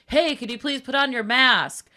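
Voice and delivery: mock manager calling over; imitated yell. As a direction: call out a request from afar, slowly. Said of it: "He also yells from across the thing".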